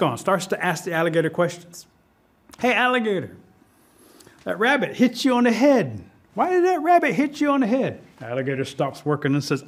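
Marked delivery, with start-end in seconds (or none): 2.6-8.0 high-pitched inquisitive rabbit; disguised rabbit, questioning. Acted. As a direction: climb higher with each nosy question. Masked rabbit questions alligator.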